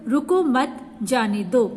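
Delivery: रुको मत said together, then a pause before जाने दो; pause after मत. Shown as a demonstration. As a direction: slowly, break the phrase after मत. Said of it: "रुको मत के बाद आपका क्या लगा हुआ है, ... अल्प विराम". (मत के बाद विराम)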